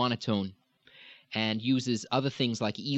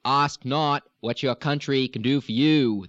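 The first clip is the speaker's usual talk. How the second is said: Kennedy-esque Boston; 2 semitones higher, 5 dB louder than usual. Retold or imitated. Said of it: "Kennedy-esque".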